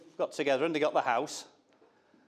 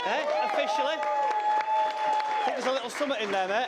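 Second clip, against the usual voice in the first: teasing. Acted. Teasing new son-in-law.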